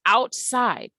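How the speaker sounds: "outside" with a long I in "side"; stretched I sound. Shown as a demonstration. Teacher showing both syllables are stressed, "outside" with a stretched second half. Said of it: "The I sound stretches".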